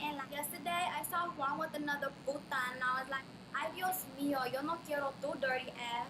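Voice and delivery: Tonga-style Latina accent with Spanish mixed in. Shown as a demonstration. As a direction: put on a gossiping, Spanish-flecked Tonga accent. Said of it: "this is my Tonga accent".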